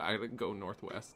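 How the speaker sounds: normal talking voice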